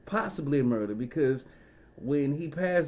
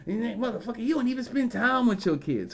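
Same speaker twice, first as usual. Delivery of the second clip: higher, a lightly voiced nagging woman; mock scolding woman; 8 semitones higher than usual. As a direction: mimic a woman telling off her man. Women berating men who left.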